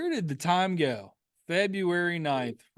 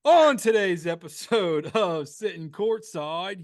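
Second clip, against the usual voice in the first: put-on Baltimore accent; 2 semitones higher, 4 dB louder, slower than usual. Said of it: "I'm trying to do my Baltimore accent".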